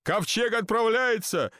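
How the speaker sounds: high-pitched mild alarm; understated scared announcement; frightened shout. A narrator's reading. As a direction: call out with a touch of panic. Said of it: "испуганно закричал капитан".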